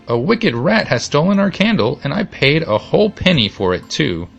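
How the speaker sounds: high-pitched indignant complaint; upset boy in a storybook; dismayed outcry. A narrator's reading. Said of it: "he cried".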